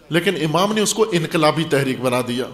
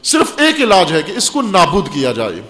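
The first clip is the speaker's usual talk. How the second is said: forceful preaching. Acted. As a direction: hammer out each condemnation. Quotes Imam's letter forcefully.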